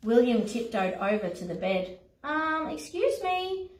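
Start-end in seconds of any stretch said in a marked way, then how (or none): 2.2-3.7 sleepy lion. Acted. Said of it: "mumbled the lion".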